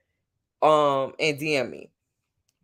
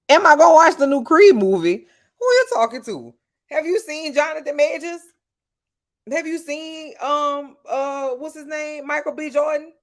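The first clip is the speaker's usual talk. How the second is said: high-pitched, loud fan gushing; thrilled at the thought of the actors; giddy excitement; 10 semitones higher, 6 dB louder than usual. Real, not acted. To her chat about the new Creed movie, giddy.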